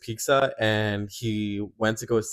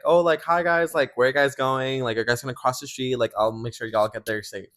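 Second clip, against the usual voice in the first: overeager greeting; 2 semitones higher than usual. Retold or imitated. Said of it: "was like".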